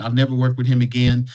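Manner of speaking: mildly fed up, hit never; fed-up vow. Retold or imitated. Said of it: "somebody's like".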